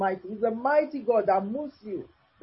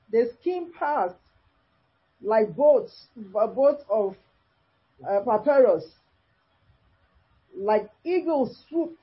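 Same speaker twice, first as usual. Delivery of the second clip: slow, deliberate reading with long pauses between phrases; scripture reading. Acted. Preacher reading Job's lament to listeners, measured scripture reading. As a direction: read the verse out phrase by phrase.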